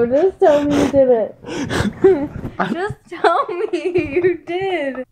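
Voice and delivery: laughing plea. Real, not acted. Pleading through laughter.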